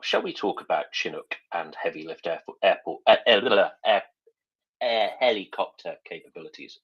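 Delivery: talking around a mint, tongue-tied; stumbling with a mint in the mouth; chewing a mint. Real, not acted. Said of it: "Sorry, I'm trying to chew a mint and talk at the same time".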